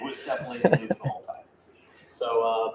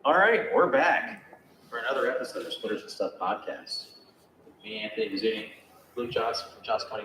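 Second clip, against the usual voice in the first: podcast host intro. Acted.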